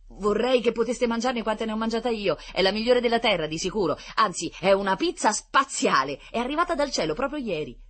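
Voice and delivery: high, loud, gushing praise; excited boasting. A narrator's reading. Rita praising the space pizza to the children, excited.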